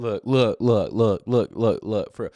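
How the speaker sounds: loud, stammered repeats of a rattled suspect; mocking tongue-tied suspect. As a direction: mimic someone who can't talk right. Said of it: "Can't even talk right".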